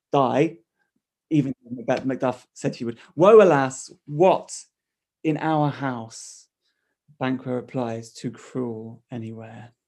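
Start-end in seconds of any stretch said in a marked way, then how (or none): 3.2-6.5 loud cry on Woe, then slowing down; loud mock-tragic cry easing into a slow question; dramatic lament. Reading Lady Macbeth's line aloud. 8.1-9.7 softer, slow and grave; low-key solemn answer, slowed right down; hushed reply. Acted. Reading Banquo's reply aloud.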